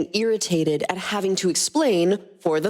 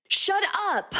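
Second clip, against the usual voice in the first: shout; 3 dB quieter than usual. Acted. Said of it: "Nebula ... shouted".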